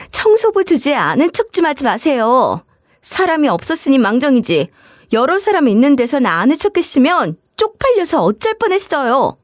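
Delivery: sister-in-law belittling the cleaner, scornful; contemptuous. Acted. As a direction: look down on her with scorn.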